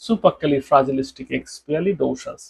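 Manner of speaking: supercalifragilisticexpialidocious stretched out very slowly. Shown as a demonstration. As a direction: draw each syllable out. Word said very slowly. (অনেক ধীরে টেনে উচ্চারণ)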